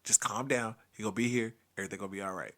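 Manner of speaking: reassuring a scared brother; calming down. Retold or imitated. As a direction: settle him down gently. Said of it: "So I was like".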